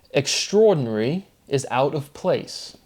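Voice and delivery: mock British accent on "Extraordinary"; a touch of British English. Shown as a demonstration. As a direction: say it lightly British, "Extraordinary" run together. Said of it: "do that one with a British accent".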